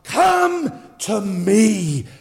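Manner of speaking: high, very slow drawn-out call, shouted at the peak; God calling. Acted. God calling people among competing voices, slow pleading call. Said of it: "he says".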